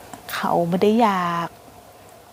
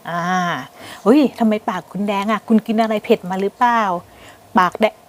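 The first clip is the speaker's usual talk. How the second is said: flirty compliment; 3 semitones higher than usual. Acted. Woman flirting with a foreign man over his eyes, playfully sweet. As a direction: coax him with a playful little flatter. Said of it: "เราก็ชม".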